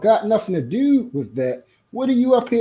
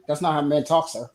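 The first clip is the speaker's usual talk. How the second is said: mimics the guest's prim correction, lower and softer, sneering; mocking imitation; 5 semitones lower, 6 dB quieter than usual. Host mimics guest's correction, mock-prim and sneering. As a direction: throw his words back at him, mock-prim. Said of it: "I'm supposed to talk like you?".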